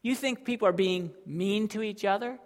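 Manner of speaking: God warning the prophet, building then dropping; voicing God. Preacher voicing God to Habakkuk, stern warning. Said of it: "God comes and says".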